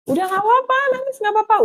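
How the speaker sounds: put-on high-pitched hushing of a baby; acted soothing. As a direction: play at comforting a crying newborn. Soothing the crying baby, retold.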